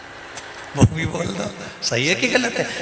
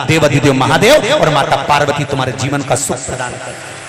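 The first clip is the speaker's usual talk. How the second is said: louder, driving sermon voice; fervent preaching; 3 dB louder than usual. Acted. Preacher urging listeners to hear Shiva's katha, fervently. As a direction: preach it out with rising fervour.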